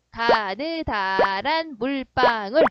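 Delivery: very slow, syllable-by-syllable recitation; recited memory phrase. Shown as a demonstration. Teacher giving students a phrase to memorise, slowly recited. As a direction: stretch out every syllable so it sticks. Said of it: "뭐라고 했죠?".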